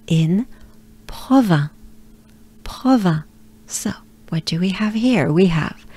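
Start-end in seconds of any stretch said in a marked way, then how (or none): 1.1-3.2 "Provins" with a breathy French R after the P. Shown as a demonstration. Teacher models the town name, French R. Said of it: "preceded by a French R".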